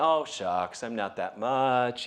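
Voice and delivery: low-pitched aw-shucks humility; acted bashful self-deprecation; mock modesty. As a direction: play the modest type, brushing off praise. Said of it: "modest and humble about that".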